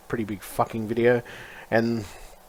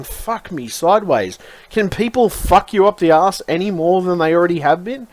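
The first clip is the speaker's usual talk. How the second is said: raised-pitch exasperated rant; 5 semitones higher, 3 dB louder than usual. Retold or imitated. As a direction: vent in disbelief, drawing out the first words. Acting out exasperation at his job.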